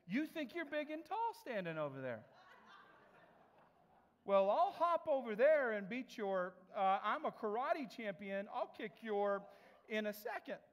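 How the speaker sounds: laughing mock threat from an angry customer; mock tough-guy threat. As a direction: bluster like a wannabe karate champ. Customer gets physical, threatening.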